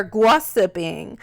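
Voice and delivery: put-on New York accent, stretched "gossiping"; Wendy Williams. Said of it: "Wendy and her little accent".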